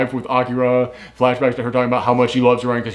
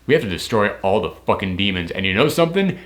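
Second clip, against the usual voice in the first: lightly voiced villain speech. Imitating Ryo's broadcast.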